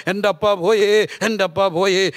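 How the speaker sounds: imitated wailing. Wife mourning her dead father, imitated wailing. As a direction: act out a lament, stretching the last word. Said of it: "ഭാര്യ ഇരുന്ന് കരയുകയാണ്".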